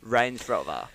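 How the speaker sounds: lightly posh "Range Rover"; a hint of toffee accent; put-on toffee accent. Shown as a demonstration.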